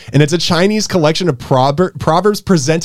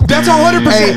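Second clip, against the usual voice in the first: put-on Kazakhstan accent; 9 semitones higher than usual. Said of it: "talk like this".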